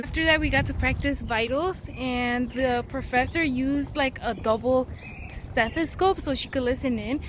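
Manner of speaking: slightly breathless, talking while walking; winded from carrying a heavy backpack; out of breath. Real, not acted. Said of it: "I'm out of breath, y'all".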